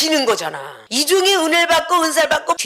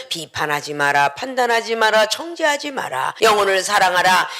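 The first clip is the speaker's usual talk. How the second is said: gentle command; 5 semitones lower than usual. Acted. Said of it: "근데 우리 주님은".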